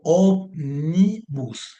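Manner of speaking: ómnibus said very slowly, stress on Ó; ómnibus stretched out slowly to show the accent; slow syllable-by-syllable. Shown as a demonstration. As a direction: drag out ómnibus syllable by syllable, hitting Ó. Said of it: "Y ahí está acentuada".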